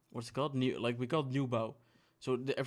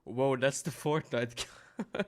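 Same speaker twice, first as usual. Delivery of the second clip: put-on clueless kid voice; much slower than usual. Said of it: "people saying".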